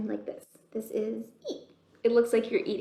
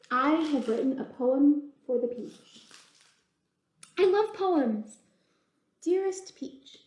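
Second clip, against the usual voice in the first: chatty bug voices. Acted. Bug reads a poem.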